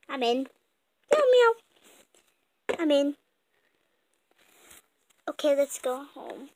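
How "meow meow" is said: very high little cat meowing; kitten meows. Acted. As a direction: meow like a small kitten.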